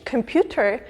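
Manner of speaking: "computer" with a strong push on PU; strong English stress. Shown as a demonstration. Teacher contrasting English computer, strong stress on PU. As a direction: hit the middle syllable of computer. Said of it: "where the emphasis is much stronger".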